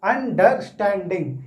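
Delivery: "अंडरस्टैंडिंग" slowly split for counting sounds; syllable by syllable. Shown as a demonstration. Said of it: "अलग-अलग तोड़कर". ("अंडरस्टैंडिंग" धीरे, टुकड़ों में)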